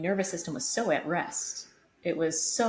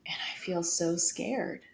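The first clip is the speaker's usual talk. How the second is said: scared whisper; 4 dB quieter than usual. Retold or imitated. Retelling her scared admission.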